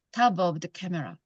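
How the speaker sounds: slow, "top of" as "tabob"; linked "top of". Shown as a demonstration. Teacher drilling a linked phrase for students, in a slow linked "top of". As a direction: blend "top of" into one sound. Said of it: "할 때 top, top of".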